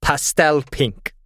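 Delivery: "pastel pink" drawn out slowly; slow, deliberate choice. Real, not acted. Player choosing a candle colour for the game master, slow and deliberate "pastel pink". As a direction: announce "pastel pink" word by word, savouring each.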